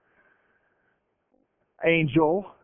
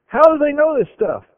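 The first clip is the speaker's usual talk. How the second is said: a raised, higher indignant demand from the enraged king; the king of Aram, enraged at his officers, shouting the question higher and louder; angry king; 7 semitones higher, 5 dB louder than usual. Acted.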